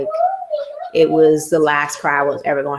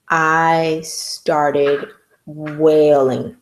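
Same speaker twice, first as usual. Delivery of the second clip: drawn-out wail; 3 semitones lower, much slower than usual. Pretend. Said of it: "like I'm about to do now".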